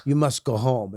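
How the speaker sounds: firm order in imitated Russian accent. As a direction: send him home as a Russian superintendent. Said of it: "She was Russian".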